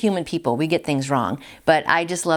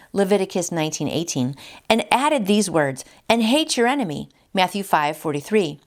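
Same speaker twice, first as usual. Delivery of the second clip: devotional reading. Acted. Reading the daily devotional aloud.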